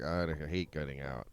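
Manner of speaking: lightly voiced grudging complaint; begrudging. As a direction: imitate a man grudgingly agreeing to go out. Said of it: "He's begrudgingly like".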